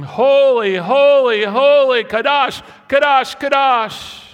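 very high and loud, each holy falling; shouted praise. Acted. Seraphim cry holy before God, shouted very high and loud. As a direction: ring it out like heavenly beings crying holy. Voicing worshiping beings around the throne.

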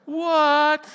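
high, loud, long-held word; outraged, incredulous exclamation; indignant disbelief. Retold or imitated. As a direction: cry it out in disbelief. Acting out reaction to diagnosis.

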